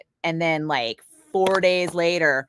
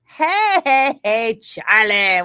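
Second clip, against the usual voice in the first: high, loud call-out to Charlie; bright loud hey hey hey; excited greeting; 4 semitones higher, 7 dB louder, much slower than usual. Real, not acted. Greeting chat viewer.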